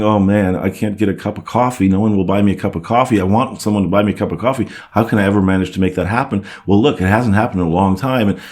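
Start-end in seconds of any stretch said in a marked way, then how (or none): 0.0-6.5 rattled off fast, mock complaining; a hammed-up fretting monologue, fast; mock whiny self-talk. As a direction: rush through the moaning like a sulky inner voice. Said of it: "you're not sitting around going".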